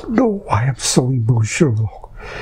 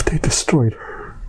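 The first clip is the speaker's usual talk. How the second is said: choked whisper; 2 semitones higher, 3 dB quieter than usual. Real, not acted. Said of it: "unvoiced cry".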